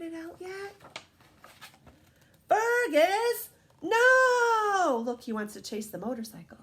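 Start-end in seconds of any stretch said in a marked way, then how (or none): 2.5-5.0 loud, higher warning cry; alarmed shout. Acted. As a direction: stop the dog before he bolts. Dog chases motorcycle.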